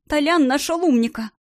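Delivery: shaky frightened whisper; trembling whisper. Acted. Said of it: "дрожащим шёпотом проговорила она". (дрожащий испуганный шёпот)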